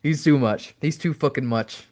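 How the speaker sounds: amused, laughing at a mate's antics; mild laughing delivery. Retold or imitated. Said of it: "the Bulldog said, laughing".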